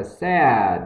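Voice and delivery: SAID with a short E and closing D; short E, final D. Shown as a demonstration. Teacher corrects learners on said, short E and D. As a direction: finish "said" on a D after a short E. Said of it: "Short E và âm D sau nhé".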